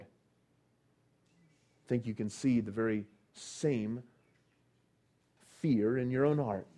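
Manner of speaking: hushed sermon aside. Acted. Preacher confiding to listeners about their fear, hushed. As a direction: lean in and speak it softly.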